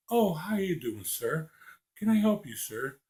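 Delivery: proper polite voice. Shown as a demonstration. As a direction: greet him like a courteous shop clerk. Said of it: "I know when to be that way".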